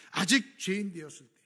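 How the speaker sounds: a preacher's loud repeat; proclaimed loud. Acted. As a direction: ring it out the second time. Repeated louder.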